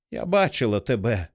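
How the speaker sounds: plain reading voice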